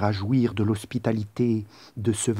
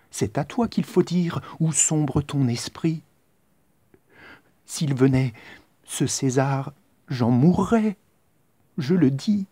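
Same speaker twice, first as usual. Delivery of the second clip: pleading sister; 4 semitones higher than usual. Acted. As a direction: shame her brother into refusing.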